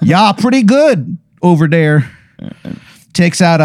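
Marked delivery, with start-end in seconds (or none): 0.0-2.1 slow, hammed-up Wisconsin drawl; lazy, overdone Midwest accent; bad Wisconsin accent. Wizard chats to the player in a bad Wisconsin accent. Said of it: "worst Wisconsin accent".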